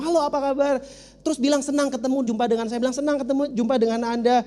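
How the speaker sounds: a cheerful announcer voice, lightly done; upbeat radio announcer. Acted. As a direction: sell it like an on-air DJ. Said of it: "ngomong yang agak banyak terus agak semangat".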